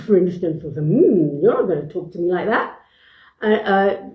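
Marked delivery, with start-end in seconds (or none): 0.9-2.8 glaring. Shown as a demonstration. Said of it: "maybe a glaring mode".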